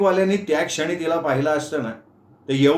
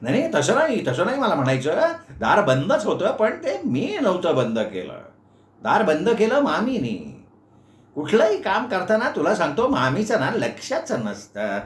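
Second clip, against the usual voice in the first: lightly voiced fussy old uncle, higher; flustered uncle; 4 semitones higher than usual. Uncle explains to Meenu the aunt shut the door, flustered. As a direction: backpedal and shift the blame.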